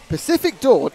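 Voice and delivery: mock emphatic chat message; reading out capitals. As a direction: read it out as if typed in capitals. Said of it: "in capitals".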